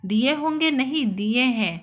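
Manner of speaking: stern, pressing on हैं; stern correction. Acted. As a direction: correct her firmly, landing on हैं. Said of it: "गृहस्वामी कड़े स्वर में".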